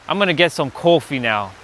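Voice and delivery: lightly mimicked Brooklyn "coffee" with a long oh; Brooklyn pronunciation. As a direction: imitate a Brooklyn uncle, "coffee" as KOH-fee. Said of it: "people in Brooklyn are saying".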